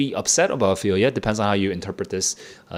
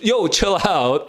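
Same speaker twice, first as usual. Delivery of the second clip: Horatio calming; 8 semitones higher, slower than usual. Retold or imitated. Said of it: "Horatio is like".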